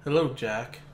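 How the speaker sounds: low, soft sultry voice; sultry narrator. Pretend. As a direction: purr it low and seductive. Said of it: "this sultry, like, voice".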